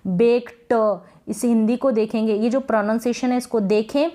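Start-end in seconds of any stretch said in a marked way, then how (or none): 0.1-0.7 बेक्ड with a full separate "ta" at the end; overdone T. Shown as a demonstration. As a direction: say बेक्ड as "bek-ta", T fully sounded. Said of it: "आप इसको ऐसे नहीं पढ़ेंगे".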